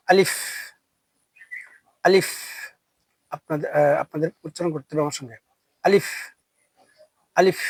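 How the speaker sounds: short clipped letter name আলিফ for repeating; letter drill. Shown as a demonstration. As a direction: say আলিফ crisply as a model for the class. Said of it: "আমার সঙ্গে আপনারা পড়ার চেষ্টা করবেন।". (বর্ণের নাম স্পষ্ট করে বলা)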